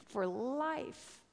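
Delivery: drawn-out, emphatic sermon climax; preaching. Acted. Preacher drawing the lesson from a friend's vision, impassioned preaching.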